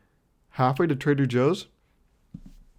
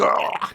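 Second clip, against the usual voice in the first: higher throaty mock gag; mock gagging noise; 7 semitones higher than usual. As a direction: imitate gagging mid-protest. Mimes gagging while insisting he's fine.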